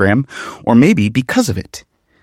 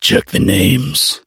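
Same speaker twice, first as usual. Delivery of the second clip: Brit faking American; 2 semitones higher, much slower than usual. Acted. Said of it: "a Brit trying to sound American".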